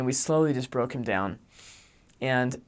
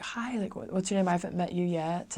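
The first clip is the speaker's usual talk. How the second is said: higher-pitched, cheery "hi" to a stranger; retold friendly greeting; 5 semitones higher than usual. Missionaries greet a newcomer at church, retold friendly greeting. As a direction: imitate yourself greeting someone new, pitched up.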